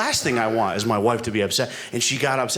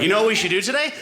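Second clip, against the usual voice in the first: wife's dream question; 7 semitones higher, faster than usual. Retold or imitated. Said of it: "it's never like".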